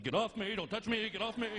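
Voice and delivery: N=Jack Nicholson/public. Retold or imitated. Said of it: "literally became Jack Nicholson".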